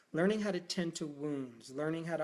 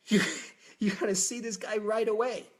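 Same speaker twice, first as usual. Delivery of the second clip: high, loud, urgent plea; frantic plea to the doctor to hurry; panicked urging; 5 semitones higher, 7 dB louder than usual. Retold or imitated. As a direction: push him to come right now.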